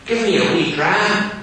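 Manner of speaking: a high Scottish brogue, as the risen corpse; the corpse asks for a wee dram in Scottish; comic Scottish accent, pitched high. Retold or imitated. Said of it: "That's Scottish, not Irish".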